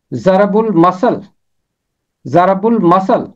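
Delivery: ضرب المثل as za-rab-ul-ma-sal, slow and spaced; pronunciation demo. Shown as a demonstration. Teacher drills ضرب المثل for Bible readers. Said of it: "اس کا تلفظ ہے".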